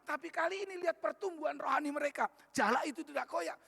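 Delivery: impassioned pulpit climax; fervent preaching. Real, not acted. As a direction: pull the whole church up with you. Preacher lifts to a new climax.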